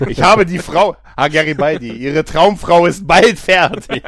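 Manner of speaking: loud, gloating mad scientist. Pretend. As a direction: proclaim it like a triumphant villain. Mad scientist announcing the creation.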